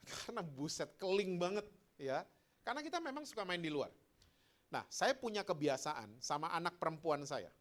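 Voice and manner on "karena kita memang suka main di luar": ordinary talk, nothing marked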